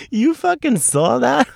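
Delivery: high, slow, stunned disbelief; embarrassed shock. Retold or imitated. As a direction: gasp it out, amazed she saw. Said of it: "And I was like".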